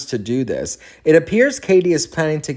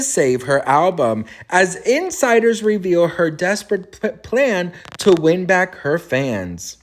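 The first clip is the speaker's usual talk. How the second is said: news anchor voice; 2 semitones higher than usual. Pretend. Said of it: "Girl, I sounded like a news anchor".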